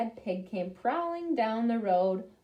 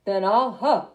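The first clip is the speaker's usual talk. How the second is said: slow, drawn-out louder threat; big bad pig threatening; 6 dB louder, slower than usual. Big bad pig threatening to blow the house down, slow and loud. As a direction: stretch out the blow like a bully.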